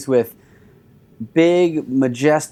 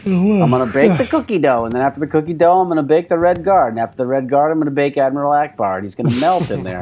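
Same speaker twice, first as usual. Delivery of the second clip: mock friend voice; faster than usual. Mocking friend's plan.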